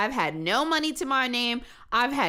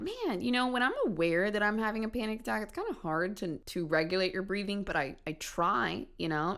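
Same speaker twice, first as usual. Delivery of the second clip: much softer, composed explanation; calm and quiet; 3 semitones lower, 6 dB quieter than usual. Retold or imitated. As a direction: switch to a calm, soft reasonable tone. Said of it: "I'm already thinking, like".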